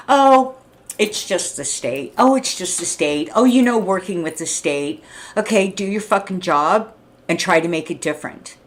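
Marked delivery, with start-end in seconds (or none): 0.1-5.0 mocking excuse.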